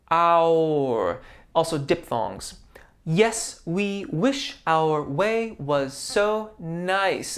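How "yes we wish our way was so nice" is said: spoken slowly. Shown as a demonstration. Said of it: "we're gonna glide down on nice".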